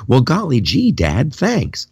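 lightly voiced, wide-eyed, gee-whiz son; a hint of an eager, grateful boy; wholesome 1950s kid. Voicing son, wholesome reply.

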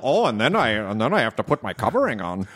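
lightly voiced meek character; a hint of a timid sketch character; Bruce McCullough character. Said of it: "sounds like a Bruce McCullough character".

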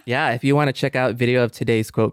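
a light, even sign-off read over the music; podcast host reading the outro to listeners, light sign-off. Acted. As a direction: wrap the show up like a host reading the closing lines. Reads the show outro.

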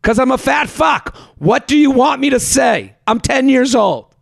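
put-on high, shouted childish protest; exasperated kid. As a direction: protest like a cornered ten-year-old. Child's outburst in acted quarrel.

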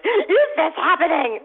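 high, loud, laughing through it; laughing disbelief. Retold or imitated. Mother and daughter in tears, high laughing disbelief.

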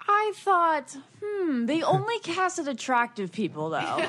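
chuckling through the words; laughing. Real, not acted. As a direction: laugh while saying it. Joking with laughter.

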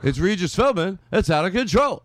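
a hint of excited Regis; Regis Philbin impression. Host warming up a Regis impression, lightly voiced. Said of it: "I gotta go back into".

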